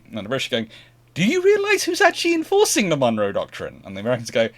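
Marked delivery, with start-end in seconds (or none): 1.1-3.8 very high, loud, indignant squawk; mock incredulous exasperation. British arguing with stubborn Americans, comically exasperated. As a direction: protest in exaggerated disbelief.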